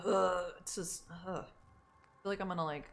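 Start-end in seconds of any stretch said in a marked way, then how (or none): 0.1-0.5 throaty demo rasp; gravelly grunt. Shown as a demonstration. Streamer showing the rasp they want, gravelly grunt. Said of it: "the gravelly, like". 1.3-1.4 short throaty rasp sound; gravelly grunt. Shown as a demonstration. Streamer demonstrating the rasp, gravelly grunt. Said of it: "the gravelly, like".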